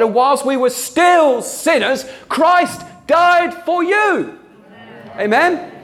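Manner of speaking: slow and soaring, drive it home; preaching climax. Real, not acted. Preacher crying out to the congregation, slow rising shout.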